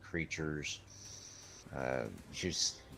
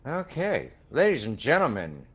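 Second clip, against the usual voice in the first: hyped arena announcer; 10 dB louder than usual. Acted. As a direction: whip the crowd up over the upgrade. Announcer hypes the upgrade.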